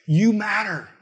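screaming out, restrained. Acted. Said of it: "hear Jesus screaming that out to us".

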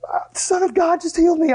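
breathless high whisper of wonder; awed whisper. Retold or imitated. Healed woman falls at Jesus' feet, whispering in awe. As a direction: whisper it, overcome, high and airy. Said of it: "She's like".

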